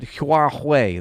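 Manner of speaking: "Huawei" drawn out slowly through its vowels; exaggerated pronunciation. Shown as a demonstration. Streamer struggling with the name, "Huawei" slowly stretched. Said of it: "there's, like, six vowels in there".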